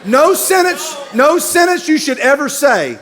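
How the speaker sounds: laughing, shouted rule. Real, not acted. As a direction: hammer home the advice. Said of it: "let me just give you some advice".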